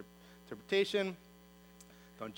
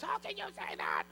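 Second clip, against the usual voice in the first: indignant Pharisee; 6 dB quieter than usual. Acted. Pharisees object to forgiveness.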